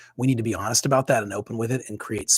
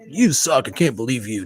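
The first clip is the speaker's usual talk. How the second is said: a touch of harsh self-talk, first words raised and louder; mock self-scolding; 3 dB louder than usual. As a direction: imitate your old inner critic lightly. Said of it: "historically I would be like".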